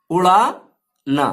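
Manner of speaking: "उड़ाना" said slowly with a falling end; slow sounding-out. Shown as a demonstration. Teacher slowly sounding out "उड़ाना" for students. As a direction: draw out "उड़ाना" and let it fall. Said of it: "नून को अलिफ में मिलाना होगा".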